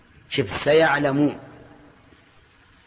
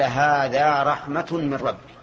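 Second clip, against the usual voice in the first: slow recitation; much slower than usual. Shown as a demonstration. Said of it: "قال".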